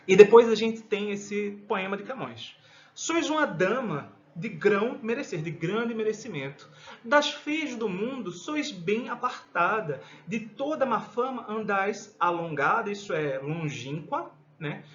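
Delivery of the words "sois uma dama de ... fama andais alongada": poem recitation. Acted. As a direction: give each line its weight.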